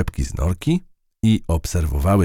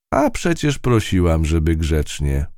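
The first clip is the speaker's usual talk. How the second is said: lecturing. Acted. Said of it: "powiedziała pouczająco".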